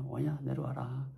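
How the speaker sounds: relaxed, easygoing mom; mild, unfazed motherly voice; coolly calm mother. Retold or imitated. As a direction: let it go like an unbothered mother. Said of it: "너무나 쿨하게".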